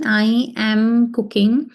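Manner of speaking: "I am cooking" said slowly, word by word; slow dictation. Shown as a demonstration. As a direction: spell out "I am cooking" slowly for the class. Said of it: "so let's translate this sentence".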